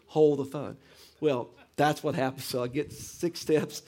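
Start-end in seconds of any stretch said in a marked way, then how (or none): 0.1-0.8 loud attention-grabbing announcement; dad's catchphrase. Retold or imitated. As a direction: imitate dad calling the room to order. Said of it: "Dad's gonna share some wisdom".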